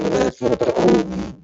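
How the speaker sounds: choked up, words barely voiced; fighting back tears mid-sentence; moved to tears pitching in for his town; voice breaking. Real, not acted. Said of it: "I'm getting emotional".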